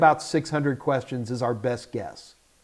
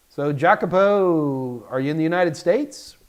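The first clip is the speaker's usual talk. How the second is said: stuffy blocked nose; talking through a blocked nose; nasal voice. Real, not acted. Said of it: "I'm so sorry about my nose".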